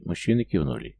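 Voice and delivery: ordinary delivery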